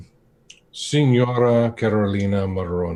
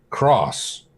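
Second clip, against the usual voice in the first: indignant echo; 4 semitones higher than usual. Acted. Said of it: "And he goes".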